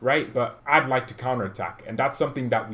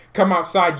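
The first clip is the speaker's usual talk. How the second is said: mock callout; 6 semitones higher, 8 dB louder than usual. Calling out Jurgen Klopp.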